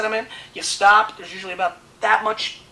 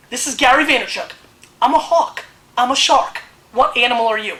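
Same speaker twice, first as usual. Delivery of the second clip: hyped boasting; 3 semitones higher, 6 dB louder than usual. Real, not acted. Hyped sign-off bragging.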